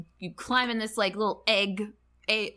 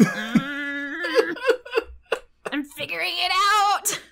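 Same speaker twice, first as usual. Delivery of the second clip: high, smug, knowing voice, half laughing; suspicious squint; 9 semitones higher, 5 dB louder, much slower than usual. Retold or imitated. Ran squinting at Conan, high smug suspicion. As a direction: narrow your eyes and gloat that you've nearly cracked it. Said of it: "she'll squint at Conan".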